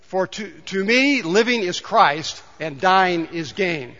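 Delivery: slow, measured scripture reading; slow reading together. Shown as a demonstration. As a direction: read each phrase slowly, in step with the congregation. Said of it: "Let's read it together".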